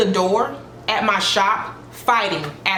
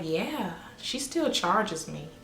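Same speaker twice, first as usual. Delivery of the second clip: hushed reply; 9 dB quieter, slower than usual. Retold or imitated. Client quietly admitting to her friend, hushed. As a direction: drop the voice, confessing it.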